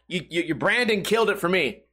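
usual speaking voice

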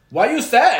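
loud, high mock-Russian demand; Julia, Russian accent. Host mocking Julia talking to Brandon, loud Russian accent. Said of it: "so Russian about this. She's like".

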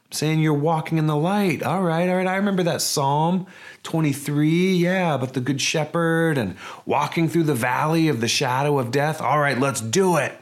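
a hint of a gung-ho disciple; eager Thomas. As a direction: play Thomas talking himself into following. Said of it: "He's like".

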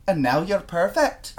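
a gentle Scottish fuss, slowly; Scottish boyfriend voice. Retold or imitated. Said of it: "Here's me trying to do Scottish boyfriend's voice".

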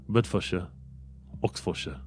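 Bedfordshire said as bed-fud-shuh; British pronunciation. Shown as a demonstration. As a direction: Oxfordshire with -shire reduced to shuh. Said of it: "în U K se pronunță".

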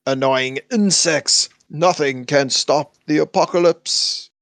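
slow, grand villain god voice. Acted. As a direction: proclaim it slowly like an ancient god. Apocalypse voiced in episode recap.

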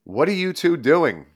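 lightly voiced scolding, pitched high; exasperated universe. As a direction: play a baffled universe telling off a couple. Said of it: "the universe is like".

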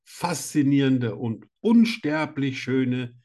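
slow, grand showman introduction; grand entrance announcement. Acted. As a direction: announce her like a ringmaster. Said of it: "ich freue mich immer auf deine Begrüßungen".

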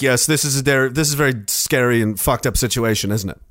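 low, dropping grave voice; deep Russian reply. Retold or imitated. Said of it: "And they're like".

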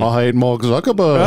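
hint of a Scouse accent like a famous Liverpool band's; mock Liverpool accent. Co-host mimicking the fighter who hates Zuckerberg, mock Liverpool accent. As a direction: lightly imitate a Liverpool fighter. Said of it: "He's got the band's accent".

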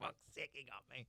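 soft, grudging mock admission; annoyed at oneself. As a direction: concede it under your breath, mock-irritated. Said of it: "they're annoyed at themselves for being annoyed".

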